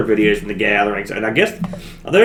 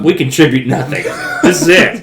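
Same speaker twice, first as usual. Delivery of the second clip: laughing; 2 semitones higher than usual. Real, not acted. Joking self-mockery, laughing.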